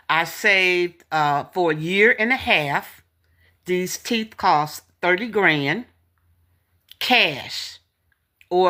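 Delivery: talking around new dentures. Real, not acted. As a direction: speak with unfamiliar new teeth. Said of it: "if I'm talking a little funny, it's because I'm trying to get used to these new teeth".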